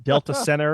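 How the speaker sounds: "Delta Center" as "Delta Senner"; dropped T. Shown as a demonstration. Giving another dialect example, T left out. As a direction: drop the T in "Center". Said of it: "leave out, like, the, the T".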